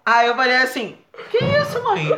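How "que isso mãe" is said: much higher, put-on astonishment with a laugh; mock innocent surprise. Son pretending to his mother he is shocked. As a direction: play innocent and amazed.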